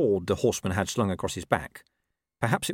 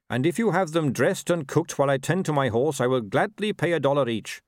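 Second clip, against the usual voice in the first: lightly voiced formal horseman, a bit raised; courteous rider; 5 semitones higher, 3 dB louder than usual.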